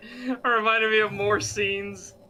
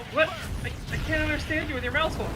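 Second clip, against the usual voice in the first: mocking voice; 8 semitones higher than usual. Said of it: "it's just like".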